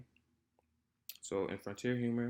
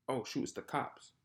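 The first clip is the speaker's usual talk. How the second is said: a higher, lightly nervous imitation of the friend; mock scared; 4 semitones higher than usual. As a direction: act out the friend's mild panic on seeing the cops. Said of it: "would seem like he's scared".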